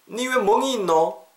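high-pitched, startled questioning; alarmed dialect question. Acted. Friend asking about a bruise, high alarmed dialect. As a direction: demand an explanation in Korean dialect.

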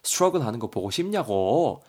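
acted nagging, pitch lifted, rising end; mock-berate someone, pressing each point; hammed-up scolding in Korean dialect; nagging telling-off. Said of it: "대거이를 겁나 쪼고 있죠".

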